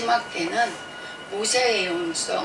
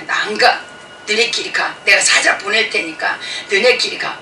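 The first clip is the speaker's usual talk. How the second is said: God as a stern father; 5 dB louder than usual. Retold or imitated. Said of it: "막 이러잖아요".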